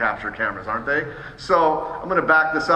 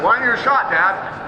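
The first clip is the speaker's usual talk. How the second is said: higher, louder mock child asking Dad; imitating his kid; 7 semitones higher, 4 dB louder than usual. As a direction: play the kid calling out to Dad. Family member's quote retold.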